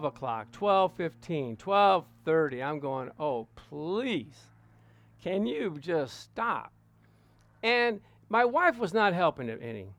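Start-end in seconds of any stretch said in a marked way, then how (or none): 3.2-6.7 exasperated plea. Retold or imitated. Silently begging long-winded preacher to stop.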